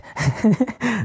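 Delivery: a quick, high bright laugh. Real, not acted. Laughs at planting a seed.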